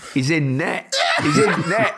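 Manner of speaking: imitating a Yorkshire goalkeeper comment; Yorkshire vowels, he's in net; Yorkshire accent. Host recalls Micah's Yorkshire at the game, Yorkshire accent. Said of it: "and you went".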